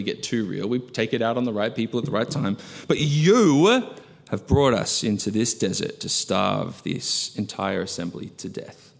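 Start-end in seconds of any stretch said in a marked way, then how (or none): 2.9-8.9 accusing Israelites. Acted. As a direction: point the finger, then let it sink. Quote restarted, accusing Moses.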